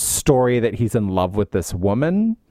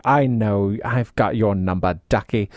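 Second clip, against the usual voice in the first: lightly voiced pompous priest, lower; a hint of lofty knowingness, pitched down; mock pompous; 5 semitones lower than usual. Priest has Maurice's number, lightly imitated pomposity. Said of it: "like, pompous".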